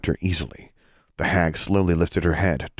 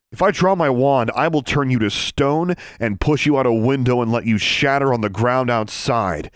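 menacing; 6 semitones higher than usual. Acted. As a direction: threaten with all the menace. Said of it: "filled her voice with all of the menace she could".

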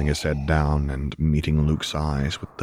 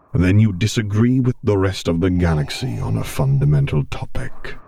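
a hint of Vader, dryly scornful; lightly voiced dark lord, derisive; 3 semitones higher, 4 dB louder than usual. A narrator's reading. Vader scoffing at Luke's view, lightly voiced.

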